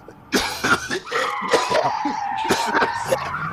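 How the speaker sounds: put-on hacking cough of an old smoker; imitated smoker's cough. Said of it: "and he'd be like".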